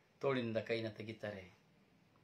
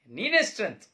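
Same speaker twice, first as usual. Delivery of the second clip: loud and high, ನೀನೇ stressed with a falling tone; shouted admission; 9 semitones higher, 14 dB louder than usual. Acted. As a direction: shout ನೀನೇ strength at your father. Son conceding quietly, then shouting. (ಜೋರಾಗಿ ಕೂಗಿ ಒಪ್ಪಿಕೊಳ್ಳುವ ಮಗ)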